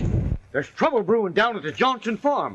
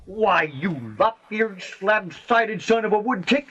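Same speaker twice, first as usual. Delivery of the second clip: mock outrage. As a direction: bluster at him like an offended old-timer. Mock insult to old friend.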